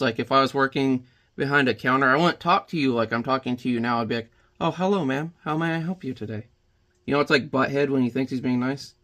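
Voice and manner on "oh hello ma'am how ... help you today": polite service voice. Shown as a demonstration. Greeting a customer at the counter in a polite service voice. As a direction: put on the nice shop-clerk voice for a customer. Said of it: "my service voice".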